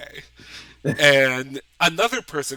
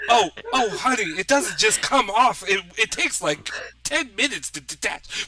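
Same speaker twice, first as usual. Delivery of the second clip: alarmed Southern Jenny; 8 semitones higher than usual. Acted. Jenny alarmed at boot theft.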